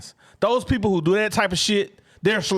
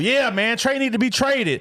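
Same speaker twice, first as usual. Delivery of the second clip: lightly voiced pile-on troll, higher pitch; imitating trolls; 4 semitones higher than usual. Co-host imitates trolls adding to the fuel, mock heckling. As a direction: mimic fans egging each other on. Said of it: "they're adding to the fuel".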